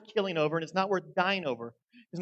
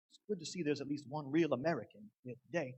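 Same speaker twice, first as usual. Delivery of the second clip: softer, lightly voiced Confederate general; Confederate general impersonation; 7 dB quieter than usual. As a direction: quote the general quietly, slightly in character. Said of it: "Confederate general impersonation".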